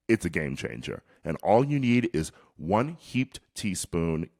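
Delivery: put-on hammy New Zealand accent; mock Kiwi ad read. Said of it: "Your New Zealand accent is definitely your worst yet".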